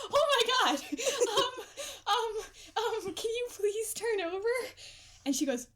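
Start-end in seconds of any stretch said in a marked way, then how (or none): 0.1-4.5 giggling through a sheepish request; laughing plea. Retold or imitated. To a grumpy roommate, laughing and pleading. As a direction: laugh while begging her to turn over. Laughing while retelling asking.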